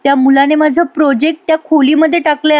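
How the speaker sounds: imitating a tense girl's mild alarm; worried student. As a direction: fret over the lost project, lightly acted. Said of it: "Gauri टेन्शनमध्ये येते".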